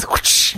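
whooshing whip crack noise. Shown as a demonstration. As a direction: make a quick whip sound. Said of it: "When I make a whip noise".

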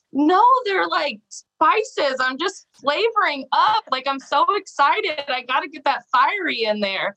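high, eager defence of cussing; excited retort. Retold or imitated. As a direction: protest gleefully, like a teen talking back to a teacher. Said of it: "And I'm like".

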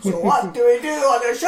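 laughing Transylvanian accent; Dracula-style Transylvanian accent, giggling. Shown as a demonstration. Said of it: "Could you try it with a Transylvanian accent?".

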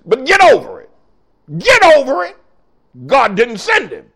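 building to a high, loud shout; preaching shout. Real, not acted. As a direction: hammer it home, rising each time. Preacher scolding congregation, escalating.

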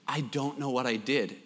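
low, soft imitated boyish reply; meek mumble. Tearful son answering his scolding mom, meek mumble. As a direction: mumble it meekly under your breath. Tearful boy answers mother, unheard first time.

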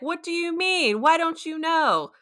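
high-pitched, incredulous questioning; imitated bewildered alarm; baffled Agnes. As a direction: question it in high-voiced disbelief. Retells Agnes baffled by Vision.

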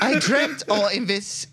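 resume the put-on Irish brogue; pseudo-Irish accent. Podcaster resuming a listener's question, mock Irish. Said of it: "pseudo-Irish speech".

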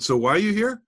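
high rising, puzzled question; just woken from a coma. Retold or imitated. Client to sales rep after three hours talking, suddenly puzzled. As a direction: ask it as if you've just come to. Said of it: "like he'd just woken up from a coma".

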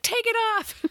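mock shrill friends. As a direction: play the friends begging her to remove it. Voicing friends at the wedding.

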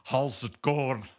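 slow, drawn-out mock Midwest greeting; lightly put-on Midwest "how's it going"; Midwest accent.

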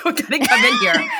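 a sudden high hammed-up yell breaking into laughter; mock doctor shout. Retelling doctors rushing into the room with a mock shout.

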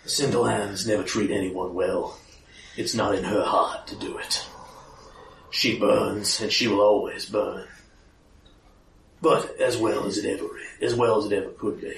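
low, soft grizzled vigilante; low gravel vigilante growl. Acted. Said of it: "more your vigilante voice".

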